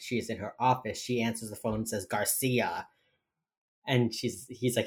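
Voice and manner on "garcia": depressed. Retold or imitated. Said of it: "who is depressed".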